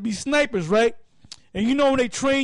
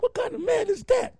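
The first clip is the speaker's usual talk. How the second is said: stunned disbelief; 9 semitones higher, 3 dB quieter than usual. Retold or imitated. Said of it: "looking at him like".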